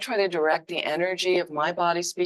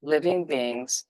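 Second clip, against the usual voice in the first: slow emphasis; 3 semitones lower, much slower than usual. Shown as a demonstration. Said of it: "again, the emphasis on all".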